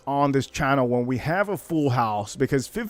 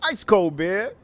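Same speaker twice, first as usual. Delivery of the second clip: street vendor calling; 6 semitones higher, slower than usual. Retold or imitated. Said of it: "whoever says that".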